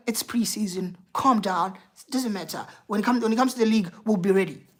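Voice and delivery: imitating an easy, soothing dismissal; retold reassurance. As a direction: play down the worry, quietly. Retells reassuring self before season.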